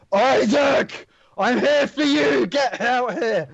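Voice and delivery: high, slow ghostly call echoing; haunting voice. Acted. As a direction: wail it out like a ghost. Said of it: "sort of haunting voice".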